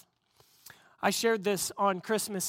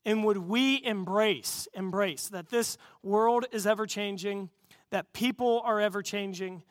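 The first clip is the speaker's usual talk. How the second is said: steady, earnest prayer voice; closing prayer. Acted. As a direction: pray it over the congregation. Pastor prays closing prayer.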